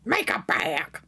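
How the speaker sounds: breathy whispered aside; hushed whisper, half to self. Real, not acted. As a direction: whisper it like a quick aside to yourself. Quiet aside while reaching for bag.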